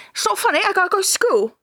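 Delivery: put-on high kid protest breaking into laughs; anger turning to laughter. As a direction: whine like a pranked kid, giggling.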